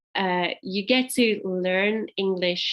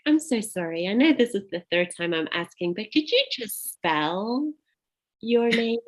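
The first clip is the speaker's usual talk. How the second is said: retold apology; 3 semitones higher than usual. Receptionist asking a caller a third time, apologetic. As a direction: re-enact an embarrassed, polite plea. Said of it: "And then I'd be like".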